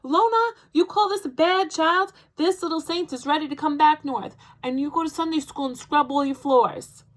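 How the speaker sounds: loud, high grandma shout. Acted. Grandma on the phone with Mama, loud high shouting. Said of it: "while she shouted".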